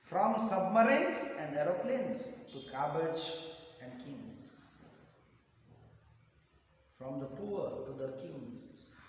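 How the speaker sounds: measured recitation with long pauses; slow poem reading. Shown as a demonstration. Teacher reads the pencil poem to students, slow recitation. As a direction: read verse phrase by phrase, slowly. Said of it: "I'll read the poem slowly".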